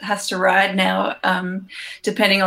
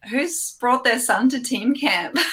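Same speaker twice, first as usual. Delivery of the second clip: amused retold thought, giggling; laughing while quoting; 4 semitones higher than usual. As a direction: quote it through a laugh.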